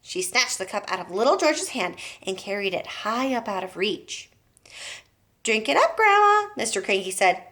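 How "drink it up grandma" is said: sly grin. A narrator's reading. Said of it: "grinning hugely".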